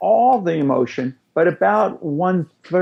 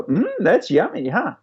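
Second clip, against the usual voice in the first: toddlerese; 4 semitones higher than usual. Shown as a demonstration. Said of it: "We go".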